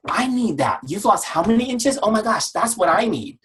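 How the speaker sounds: high-pitched, eager mock amazement; excited coworkers. Coworkers reacting to customer's weight loss, excited and eager. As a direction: exclaim way up high like envious coworkers.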